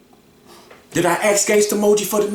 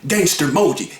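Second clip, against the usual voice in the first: halting retelling; 7 semitones lower than usual. Retold or imitated. Man retells how the interview was announced, halting imitation. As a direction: imitate a hesitant speaker stumbling over ums. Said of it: "That's how he said it".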